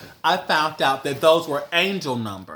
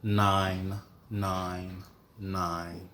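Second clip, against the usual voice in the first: announcement voice; 5 semitones lower, 5 dB quieter, much slower than usual. Retold or imitated. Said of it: "it said".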